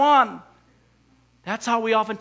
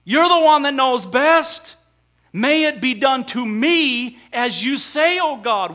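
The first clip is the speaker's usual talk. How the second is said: fervent prayer; 2 semitones higher, 5 dB louder than usual. Acted. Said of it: "she said".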